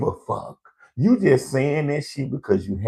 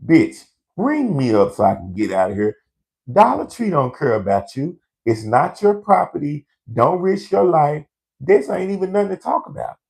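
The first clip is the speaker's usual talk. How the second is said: impatient inner voice; 5 semitones higher than usual. Retold or imitated. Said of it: "this is what I'm saying in my head".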